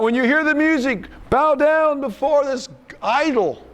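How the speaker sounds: lightly voicing a king ordering the crowd; mock royal decree. Quoting the king's decree.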